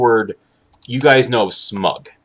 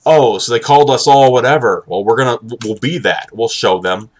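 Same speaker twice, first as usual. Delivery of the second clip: louder mocking start, easing off; mock defiance; 3 semitones higher, 4 dB louder than usual. Streamer mimicking people who were called names, mock defiant. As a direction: imitate an indignant group vowing payback.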